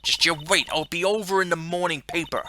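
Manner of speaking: mild southern threat; southern accent. Acted. Reporter threatening the scruffy detective, light southern accent. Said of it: "That southern accent can only mean".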